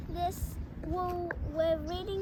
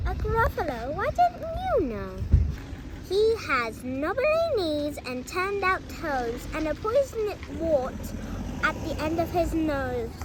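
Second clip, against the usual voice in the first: loud, bold little mouse; little mouse boldly turning down the fox, loud; brave mouse voice; 6 dB louder than usual. Acted. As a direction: play the plucky mouse, proud and sure. Mouse describes Gruffalo.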